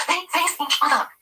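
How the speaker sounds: slow, emphatic correction; exasperated. A narrator's reading. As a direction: hammer each word home. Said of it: "Trish cries in exasperation".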